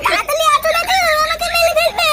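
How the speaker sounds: high, urgent cry to grandpa; panicked call for help. Acted. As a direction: yell for grandpa as if about to be beaten. Child calls grandpa for rescue. (ভয়ে দাদুকে ডাকা)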